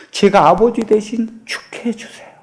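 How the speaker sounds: a breathy, voiceless whisper of a plea; 속삭이듯 간청. Acted. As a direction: beg him in a whisper. Daughter's plea, whispered take.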